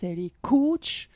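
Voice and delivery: "elle est coach" whispered like a cheeky secret; whispered aside. Acted. Introducing her friend Aude, teasing in a whisper. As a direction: drop to a whisper for the joke.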